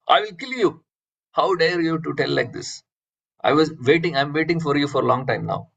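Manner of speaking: mock angry shout. Alexander threatens the meditating sadhu, mock angry shout. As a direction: act out indignant anger, pitch jumping up then easing. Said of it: "he started shouting in anger".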